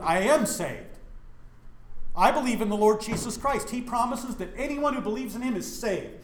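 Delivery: re-enacted heated profession of faith; retold defiant retort. Young man answering those who say he's not saved, defiant. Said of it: "You know how I responded as white trash redneck".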